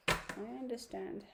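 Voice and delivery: soft, slow reassurance; gentle repeat. Real, not acted. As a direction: say it again slowly and soothingly.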